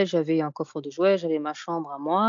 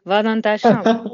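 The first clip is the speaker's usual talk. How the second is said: put-on louder, slow, higher order in a strong African accent; 4 semitones higher, 7 dB louder, slower than usual. Doing her mother for the host in a strong African accent. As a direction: play the stern African mom, dragging "Va dans ta chambre". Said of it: "tu peux nous le faire avec l'accent africain?".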